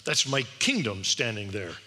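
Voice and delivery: retold angry rebuke, firm emphasis; indignant rebuke. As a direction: voice Jesus with mild indignation. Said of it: "He was angry. He was indignant when he said".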